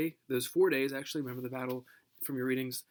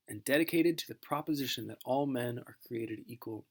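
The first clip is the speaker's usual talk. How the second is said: solemn recital of "dedicated to the proposition"; recited line. Shown as a demonstration. Teacher reciting the Address's famous line, solemn oration.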